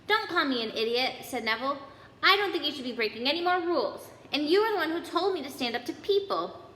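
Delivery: high, fast defiant reply. Acted. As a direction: push back hard. Neville argues back.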